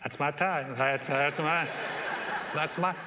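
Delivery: lightly voiced giddy pride, half laughing; a hint of a kid spotting his gift; proud whisper-brag. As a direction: pastor noticing his gift tie in service, mildly giddy. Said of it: "I'm like".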